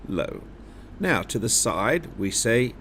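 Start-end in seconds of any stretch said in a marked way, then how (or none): 0.1-0.4 high jumps far up, low drops far down; high then low. Shown as a demonstration. Teacher showing the class high and low. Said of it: "So it's high, low".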